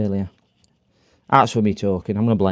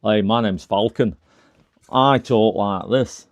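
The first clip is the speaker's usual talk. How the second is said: imitating Falcon; 3 semitones lower, slower than usual. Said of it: "I think Falcon is".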